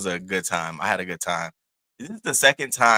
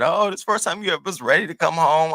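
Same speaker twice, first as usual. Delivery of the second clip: high, louder mock-surprised pet talk; teasing the dog; 8 semitones higher, 6 dB louder than usual. Owner to dog that was ready to come home, teasing. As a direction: tease a pet in a raised, animated voice.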